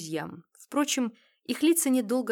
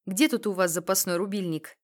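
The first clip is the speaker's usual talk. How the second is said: businesslike; 6 dB louder than usual. Acted. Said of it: "деловито спросил Гуцеев".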